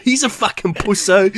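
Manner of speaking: high, hammed-up Cockney jeer at "pusso"; mock Cockney voice. Friend mocks the cowardly cop in high Cockney jeer.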